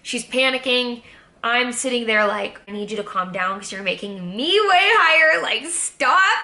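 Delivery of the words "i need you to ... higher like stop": exasperated plea. Retold or imitated. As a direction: mock-desperate plea to a friend. Telling panicking friend to calm down.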